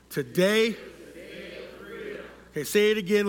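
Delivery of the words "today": like you mean it. Shown as a demonstration. Preacher leading the congregation in a declaration, like he means it. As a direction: lead the crowd in declaring it. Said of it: "like you mean it".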